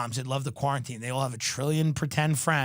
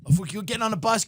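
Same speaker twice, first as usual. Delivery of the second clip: ordinary delivery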